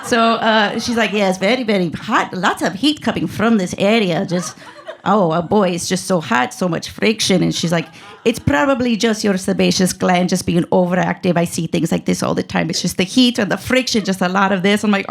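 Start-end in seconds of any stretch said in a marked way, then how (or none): 1.1-7.4 put-on lightly robotic foreign-accented doctor; cute ESL-robot accent. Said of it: "sounded like a cute little robot took E S L classes". 8.2-14.8 put-on doctor explaining in a foreign accent; lightly robotic ESL-accented explanation; cute ESL-robot accent. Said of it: "sounded like a cute little robot took E S L classes".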